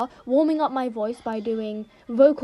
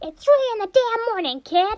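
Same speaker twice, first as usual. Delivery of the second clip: very high-pitched character voice; 10 semitones higher, 4 dB louder than usual. Repeating a played clip line in Monokuma voice. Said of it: "I'll say a line in Monokuma's voice".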